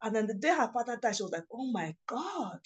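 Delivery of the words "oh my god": higher, mildly pained disbelief; retold tearful realization. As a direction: imitate a friend's dawning dismay. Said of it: "as in she cried and cried".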